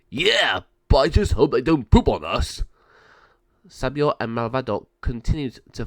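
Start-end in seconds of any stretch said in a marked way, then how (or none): 0.1-2.6 louder odd gargoyle voice, fretting; a nervous henchman; worried gargoyle. Acted.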